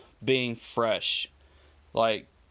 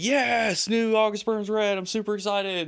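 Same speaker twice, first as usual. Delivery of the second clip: excited; 9 semitones higher than usual. Retold or imitated. Retold delight at album news.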